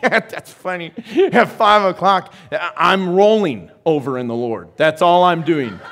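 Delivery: laughing joke. Retold or imitated. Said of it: "I'm like".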